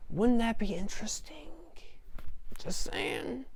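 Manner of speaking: teasing whispered aside. Real, not acted. Reviewer hinting at a spoiler in a teasing whisper. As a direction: let the secret slip in a whisper. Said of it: "teasing whispered aside".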